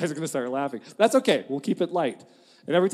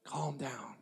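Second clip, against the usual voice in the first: shushing the crowd; much slower than usual. Retold or imitated. Caleb quieting the frightened people before Moses, hushed shushing. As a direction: hush everyone like Caleb settling a panicked crowd. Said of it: "Caleb jumps in and he goes".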